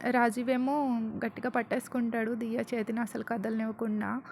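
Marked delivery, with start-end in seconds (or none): none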